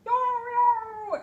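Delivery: high, loud howling yeti; yeti yowl. Acted. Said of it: "a yeti yowls".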